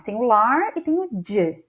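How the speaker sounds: "lar" and "de" set apart as two pieces; separate syllables. Shown as a demonstration. Teacher voicing what learners might think, syllables separated. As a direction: lift "lar", then give "de" as its own syllable. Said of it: "A gente poderia pensar".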